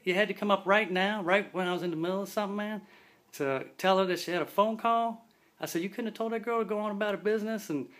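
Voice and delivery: high, loud, incredulous rant; exasperated outburst. Retold or imitated. K nine scolding Jefferson for interrupting the kiss, high and loud. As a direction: complain loudly that he ruined the moment.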